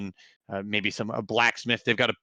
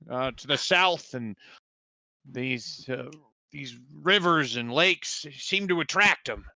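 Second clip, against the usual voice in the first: put-on a wary old villager; village quartermaster; 3 semitones higher than usual.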